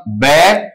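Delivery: बै alone as a short first syllable; broken-up syllable. Shown as a demonstration. Teacher breaking the word for students, isolated syllable. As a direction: isolate बै from the rest of banana. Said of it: "इसका sound यहां से टूटेगा".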